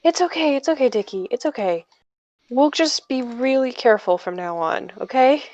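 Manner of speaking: calm them down gently, easing off in volume; reassuring. Acted. Sabrina comforting Dickie after the slip, reassuring. Comforting apologetic younger character.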